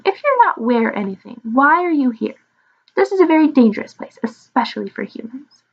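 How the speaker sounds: lightly voiced dragon, pitch swooping; inquisitive little dragon. Little dragon warns the visitors of danger, lightly inquisitive. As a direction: question them with a hint of creature voice.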